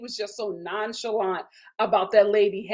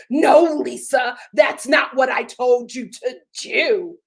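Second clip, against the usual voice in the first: mock scolding husband; 3 semitones higher, 7 dB louder, slower than usual. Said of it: "he's like".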